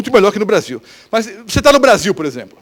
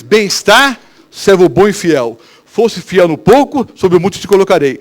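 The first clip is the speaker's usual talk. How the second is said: louder, slow, solemn blessing; solemn Lord's voice; 5 dB louder, slower than usual. Acted. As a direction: pronounce it slowly like a king's praise. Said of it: "Nós só vamos ouvir uma vez". (voz solene e lenta do Senhor)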